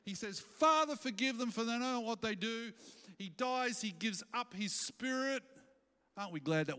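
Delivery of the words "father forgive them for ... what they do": lightly voiced dying Jesus, pleading; Jesus on the cross.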